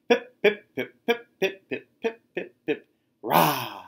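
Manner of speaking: high piping cheer; squeaky cheer. A narrator's reading. First penguin team piping their cheer. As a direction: pipe it like little birds.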